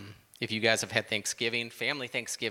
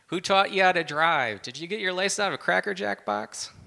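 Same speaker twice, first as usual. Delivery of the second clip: loud yell at drivers, higher pitch; road rage yelling; 8 semitones higher, 6 dB louder than usual. Retold or imitated. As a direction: shout at the other drivers in traffic. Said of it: "you yell at the other drivers".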